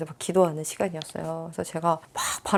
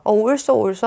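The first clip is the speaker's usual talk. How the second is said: mock cheering; 3 semitones higher, 6 dB louder than usual. Commenters cheering on public post.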